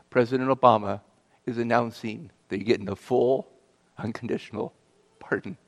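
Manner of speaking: measured, matter-of-fact official on the phone; firm official. Retold or imitated. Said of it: "very firm".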